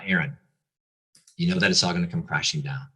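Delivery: a light hint of the Lord's gentle, loving tone. The Lord warning him while driving home, gently and lovingly. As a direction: retell God's warning kindly, barely voiced. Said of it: "in this gentle, gentle, loving voice".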